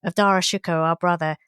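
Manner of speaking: lightly voiced gloating witch; a hint of a scheming sister; witchy voice. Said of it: "in this witchy voice".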